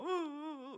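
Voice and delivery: imitating the king's sobs, high and soft; a hammed-up cry; mock sobbing. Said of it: "막 울었어요". (흉내 내는 울음소리)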